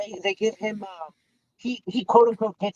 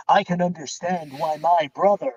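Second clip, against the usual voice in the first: brother's Bane-like voice; 4 semitones lower than usual. Retold or imitated. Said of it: "fucking Bane".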